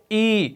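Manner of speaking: ای as a long ee; ای کی آواز; vowel ee demo. Shown as a demonstration. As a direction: sound out ای as a clear ee. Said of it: "اور یہ کیا ہے".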